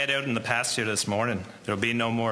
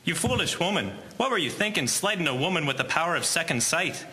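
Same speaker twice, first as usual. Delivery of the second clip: higher-pitched exasperated rebuke; scolding; 4 semitones higher than usual. Acted. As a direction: scold a foolish wife in disbelief. Husband scolds wife over slight.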